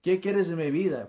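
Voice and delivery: high, loud, anguished demand; retold shout at God. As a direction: shout it up to God, reliving the moment. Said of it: "comencé a gritarle a Dios".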